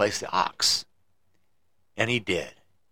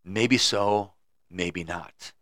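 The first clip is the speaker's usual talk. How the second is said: calm; 3 semitones lower, much slower than usual. Acted. Wise man calmly answering the angry farmer. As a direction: let it fall gently. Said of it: "very calmly said".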